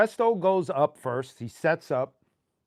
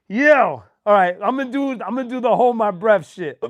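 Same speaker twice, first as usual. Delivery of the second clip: hiccup giggles; 3 semitones higher, 6 dB louder than usual. Real, not acted. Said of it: "making me laugh with hiccups".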